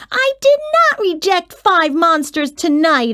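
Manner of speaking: interrupting. A narrator's reading. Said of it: "I interrupted".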